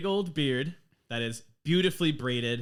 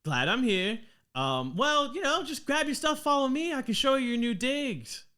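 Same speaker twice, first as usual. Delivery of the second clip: much higher, louder Aussie welcome; Australian dwarf guide; 11 semitones higher, 4 dB louder than usual. Acted. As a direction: lead them along in a brisk Aussie lilt. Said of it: "her accent has always been the same".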